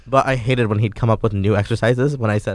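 talking around a piece of ice; words slurred by sucking ice; ice in mouth. Real, not acted. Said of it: "Sorry, I'm sucking on some ice".

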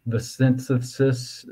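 "synthesis" with the s sounds slurred toward sh; a slight lisp on "synthesis", s turning slushy. Real, not acted. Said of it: "excuse my lisp".

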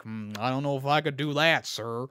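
hesitant put-on voice; Chris Pratt. Actor doubting he can do it, hesitant put-on voice. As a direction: hedge it, dropping away on the last word. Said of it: "He's like".

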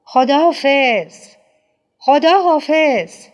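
high, loud, ringing farewell cry; a far-carrying, desperate goodbye shout. Acted. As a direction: call goodbye after a departing car. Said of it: "فریاد زد".

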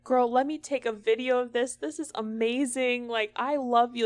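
mock gushing. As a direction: gush like meeting your idol.

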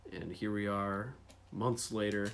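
recorded on an iPhone; thin tinny phone sound; tin can phone. Real, not acted. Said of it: "sounds like we're recording from a tin can".

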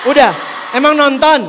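surprised. Real, not acted. Surprised at the youth.

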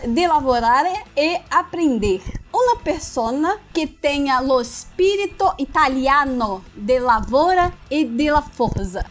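hammed-up Italian accent; mock Italian reading a job ad; Italian accent portuguese. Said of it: "fazer o sotaque italiano".

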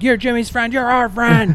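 high Muppet-like chant; squeaky puppet voices of the crowd; imitating a crowd of Muppets. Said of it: "his crowd is like Muppets".

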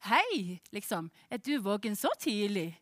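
a hint of Stavanger dialect, retold. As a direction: imitate a voice on the phone in Stavanger dialect. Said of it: "så snakker litt sånn Stavanger-dialekt".

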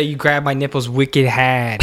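put-on slow, drawn-out Boston accent. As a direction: stretch out the Boston slang. Joining in the Boston accent bit.

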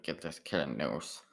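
slow, mildly robotic synthesized-voice imitation; a light hint of a speech computer, slowly; Stephen Hawking voice. Comic retelling a heckle in a mild mock Stephen Hawking voice. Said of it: "I make him sound like Stephen Hawking".

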